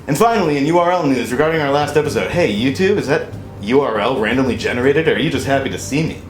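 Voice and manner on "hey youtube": ordinary delivery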